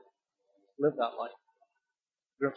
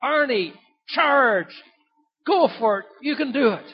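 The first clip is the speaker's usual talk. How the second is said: high, loud rallying yell from the gallery; loud, high shout of encouragement; shouted cheer from the crowd; 8 semitones higher, 6 dB louder than usual. Retold or imitated. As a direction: call it out like a fan urging him on. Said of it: "this voice came up from the gallery".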